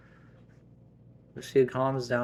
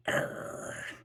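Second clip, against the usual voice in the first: low-level wordless warning growl; 4 dB quieter than usual. Acted. Wife growling at husband who intervenes, annoyed growl. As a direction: growl in irritation. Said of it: "she growled at me".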